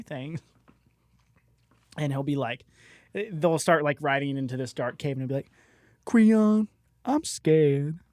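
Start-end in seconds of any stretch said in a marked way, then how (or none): 6.0-8.0 lightly voiced timid steed; a touch of fearful whining; Mischief. Steed confides in its rider riding into a dark cave, mildly scared. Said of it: "can you please voice Mischief".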